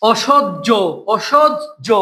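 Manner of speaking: "অসহ্য" split before a clear closing "jo"; final vowel shown. Shown as a demonstration. Teacher showing the last letter's sound, "অসহ্য" said in parts. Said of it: "শেষ বর্ণে কি উচ্চারণ হয়েছে".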